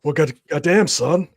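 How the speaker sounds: put-on American accent, loud and punchy; loud, hammed-up American. Shown as a demonstration. Asked to show off an American accent, loud put-on American. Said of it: "I wanna hear your American accent".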